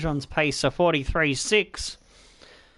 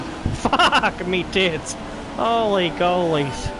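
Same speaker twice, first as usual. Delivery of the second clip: drawn-out exclamation; much slower than usual. Real, not acted.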